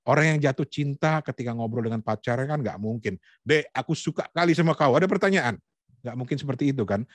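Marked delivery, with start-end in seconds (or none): 3.4-5.6 brisk, ungentle declaration, rising at the end; unromantic love confession. Shown as a demonstration. Coach shows how not to talk to a sweetheart, hammed-up ungentle confession. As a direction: confess love with no tenderness at all. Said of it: "Tentu harus lemah lembut".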